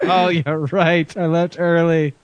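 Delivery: sheepish admission. Pretend. Friend admits in imagined reunion.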